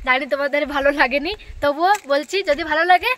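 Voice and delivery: cathedral echo, voice ringing back. Real, not acted. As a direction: speak into a big echoing space. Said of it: "আমার কথাটা ইকো হচ্ছে এখানে".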